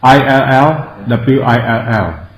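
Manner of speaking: spelled out letter by letter, slowly; slow spelling. Shown as a demonstration. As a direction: spell each letter I L L, W I L L clearly. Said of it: "Ill will".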